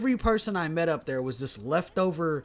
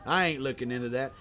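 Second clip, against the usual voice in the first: put-on drunk small-town coroner with a Southern accent. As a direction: play a boozy Southern official brushing it off. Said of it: "I did a southern accent again".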